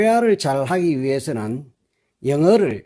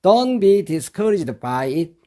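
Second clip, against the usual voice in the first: very slow, each word laid out for learners; slow model reading; much slower than usual. Shown as a demonstration. Teacher to students, very slow model reading. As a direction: read it out slowly for students to copy. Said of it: "이렇게 하면 되는데요".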